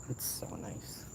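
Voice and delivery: hushed whisper so no one hears. Real, not acted. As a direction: whisper it secretly. Whispering about neighbor's yard.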